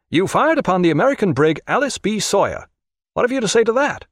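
high-pitched, officious questioning; agitated official interrogator. A narrator's reading. Brenton puts the charge to Jack, officious and high. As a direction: read the charge in a high, insistent voice.

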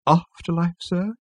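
high, haughty, arched query; disdainful. Acted. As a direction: sniff at the very idea. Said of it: "arch its eyebrows disdainfully".

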